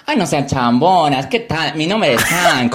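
put-on light Iquitos Peruvian accent; sing-song jungle Peruvian Spanish, playful. Host introducing himself in Iquitos accent. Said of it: "Acento, ay, iquiteño".

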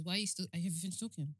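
understated rude dismissal, slightly softened; rude brush-off. Acted. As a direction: cut someone off rudely without raising the voice. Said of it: "my rude one is".

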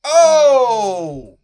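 high, loud burst of approval; excited exclamation. Real, not acted. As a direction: shout it like an amen. Reacting to strong statement.

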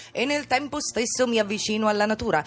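nasal voice. Acted. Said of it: "uso la voce nasale come nel spettacolo".

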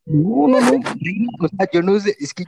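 talking without front teeth; missing front teeth. Real, not acted. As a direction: toothless gap in the speech. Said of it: "o sea, que está mueco".

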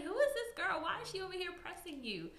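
put-on high, whiny girlfriend confronting him; white girl voice. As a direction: play the upset white girlfriend. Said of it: "that's your white girl voice?".

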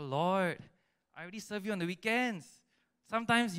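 high, quick mock protest; whining to God. Servant arguing with God about going full time, whining protest. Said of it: "when we whine to him".

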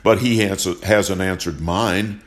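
building from firm to a loud, angry cry; angry retort. Acted. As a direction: push back harder with each question. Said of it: "Johnson shot back".

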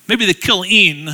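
"killing" slowed, weight on the final -ing; stress on -ing. Shown as a demonstration. Joking that only the process is bad, "killing" with stressed -ing. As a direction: lean on the "ing" ending of "killing". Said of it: "the I N G part of it".

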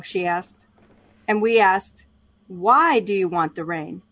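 steady book-reading voice; reading aloud. Acted. Co-host reads the book chapter aloud on the podcast, measured reading voice. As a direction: read the passage to a listener, evenly.

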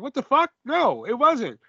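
a mock outraged what the fuck; incredulous. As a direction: pitch it up in disbelief. Outraged reaction to commentary.

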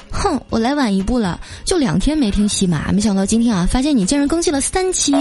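high, squealing happy gush with laughs; giddy excited listener message; gushing fan. Retold or imitated. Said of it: "他说".

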